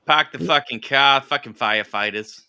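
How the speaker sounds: imitating a viewer's odd regional accent; mock Land of Plenty accent. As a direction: ham up a made-up regional accent. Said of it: "I bet that is Land of Plenty's accent".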